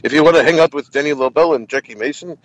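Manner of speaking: lightly imitated insistent comic, lilting stresses; Jackie Mason. Comic selling the diner to podcaster, lightly imitated insistence. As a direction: argue the point like an opinionated old performer. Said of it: "He goes".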